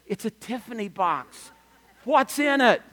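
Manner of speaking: lightly voiced teacher, intrigued by the box; mildly excited teacher. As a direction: retell a teacher's eager curiosity, rising on the question. Imitates first teacher's eager reaction.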